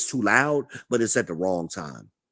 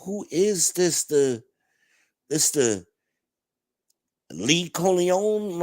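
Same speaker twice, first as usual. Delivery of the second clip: high, slow, disbelieving; mock amazement at the strange visitor; baffled; 8 semitones higher, slower than usual. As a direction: squeak it out in stunned disbelief. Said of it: "I'm like".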